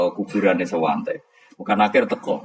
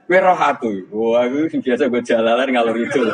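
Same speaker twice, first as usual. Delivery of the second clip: Umar snapping; 3 semitones higher, 3 dB louder than usual. Acted. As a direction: throw it at him like a dare. Umar confronts Mungkar Nakir.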